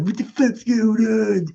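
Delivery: high, drawn-out screechy demand; imitated irate mom. Mom bursting into the bedroom, irate imitation. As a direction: pitch it way up as the mother.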